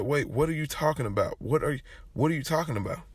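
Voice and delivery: high-pitched, stumbling demand for sense; bewildered disbelief. Retold or imitated. Visitor questions grandpa about the killing, bewildered disbelief. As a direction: act out stunned confusion. Bewildered reply to shocking news, retold.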